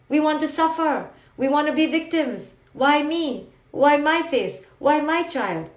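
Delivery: mock the self-pitying student; whiny victim voice. Teacher mimicking students who whine about their suffering. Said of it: "mocking victims complaining".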